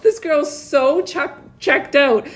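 high, laughing disbelief. Real, not acted. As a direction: laugh through the words. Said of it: "laughing while retelling".

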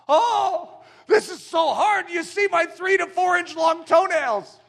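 high, loud, slow self-pitying wail; self-pitying whine. Acted. Preacher voices the sloth whining about its toenails, self-pitying. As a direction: moan it like a martyr. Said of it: "crawl about with self-pitying anguish".

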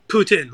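"Poutine" said as "PUT-in"; defiant mispronunciation. Retold or imitated. Fed-up customer deliberately mispronouncing Poutine as "Putin". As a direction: swallow the end, "Poutine" like "Putin". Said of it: "I'm just saying, say".

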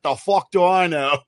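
slow, imitated Northern English accent. Caddy answers what a cleek is, imitated Northern English accent. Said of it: "his awesome Northern fucking Britain accent".

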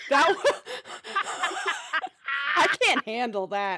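words bubbling with giggles; laughing while talking. Real, not acted. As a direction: talk through real laughter, flustered. Flustered at Russian accent idea.

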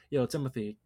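casual American accent with a chuckle. Shown as a demonstration. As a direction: demonstrate an easy American "bottle of water". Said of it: "I usually stick to American".

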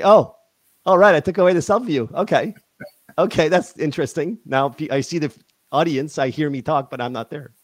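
high, bright surprised muttering to herself; amused surprise at own mistake; surprised self-talk. Retold or imitated. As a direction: react like you just noticed something odd. Self-talk reacting to missing face.

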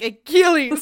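calling his name out, loud and high; exasperated shout. Retold or imitated. Friend ranting about the Iliad, shouting at Achilles in mock outrage. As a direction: yell Achilles' name in disbelief.

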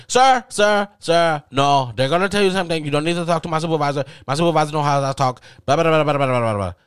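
loud, high, rapid mock tirade; argumentative cutting-in. Agent refuses to pass caller to supervisor, argumentative. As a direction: talk right over the caller, running into loud blahs.

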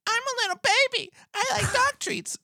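very high, fast squeaky puppy voice; high baby voice for the pet dog. Pretend. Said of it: "I'm doing the dog's voice".

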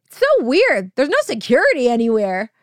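said out loud. Retold or imitated. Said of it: "I say out loud".

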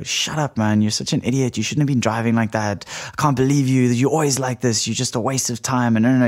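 a hint of an angry friend berating a victim; mock persecutor. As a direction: play the attacker, hammed-up blame. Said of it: "if you're gonna do persecutor, you could go".

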